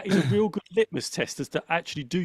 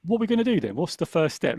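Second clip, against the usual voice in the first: upbeat inner voice; 4 semitones higher than usual. Retold or imitated. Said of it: "Now I get".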